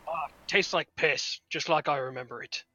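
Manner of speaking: slow, gravelly-free mock old drunk; drunk Draugr. Friend voicing the Draugr tasting the brew, mock drunk. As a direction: savor it like a hungover undead. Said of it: "be like".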